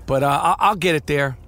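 congested, nasal voice from an infection; nasal sick voice. Real, not acted. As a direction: talk through a blocked nose. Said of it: "As you can tell, my voice is probably about seventy-six percent".

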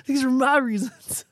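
loud, laid-back surfer voice; surfer dude. Acted. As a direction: talk like a chill surfer bro. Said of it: "It's like a surfer dude".

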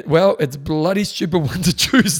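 put-on loud, slow northern English accent. Guy in the reservoir replying to a first-timer, northern accent. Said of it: "replied in a northern accent".

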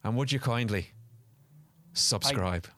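put-on old-timey announcer. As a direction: sell it like an old radio ad. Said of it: "the old-timey voice".

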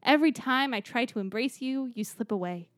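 grand speech. Acted. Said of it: "Was this an Obama speech?".

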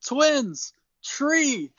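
high excited little-man voice; Hornswoggle voice. Retold or imitated. Leprechaun naming things at the party, high excited squeal. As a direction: point and squeal each word with glee. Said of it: "And he says".

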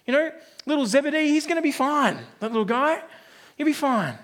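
cocky dad waving it away; confident father. Acted. Confident father reassuring the nervous one, breezy and cocky. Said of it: "The confident father replies".

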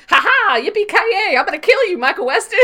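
high, loud, hammed-up gloating; theatrical villain taunt. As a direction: whoop it up as a mock gun-slinging villain. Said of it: "doing a little bit of their theater".

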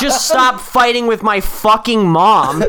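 high, drawn-out comic outrage; mock exasperated plea. Child telling divorcing dad off, mock exasperation. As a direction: hammer it home slowly, half laughing.

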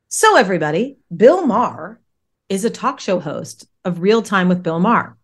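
big announcer-style host delivery; talk show host voice. Shown as a demonstration. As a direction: present it like a TV host. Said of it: "I was doing my talk show voice".

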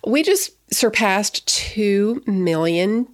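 excited. Real, not acted. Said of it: "I'm so excited about it".

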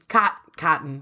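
COTTON in two syllables, first broken off and restarted. Shown as a demonstration. Co-host defends her way of saying cotton, two-syllable COTTON. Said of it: "you say it like two syllables".

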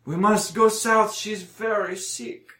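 high put-on voice, slowing at the end; pleading injured man. Injured man about his sick puppy, high earnest plea. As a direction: urge them on, then slow and soften.

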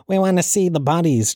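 high, mock-indignant demand; ranting Cork protester. Man in Cork demanding to see bodies, mock indignant. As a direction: mimic a protester's high-pitched chant. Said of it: "the guy in Cork going".

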